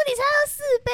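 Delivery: high-pitched mocking disbelief; mock incredulity. Man at club challenging her drink count, mock incredulity. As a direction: imitate a man scoffing in amazement.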